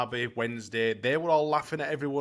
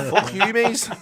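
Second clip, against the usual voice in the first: put-on Scottish accent; 9 semitones higher, 6 dB louder, slower than usual. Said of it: "you start with your fucking accents".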